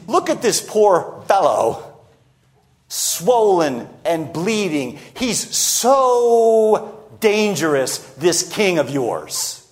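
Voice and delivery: slow mock pity, drawing words out; ridiculing. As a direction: lightly sneer with exaggerated, stretched emphasis. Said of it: "he's ridiculing the Jewish leadership".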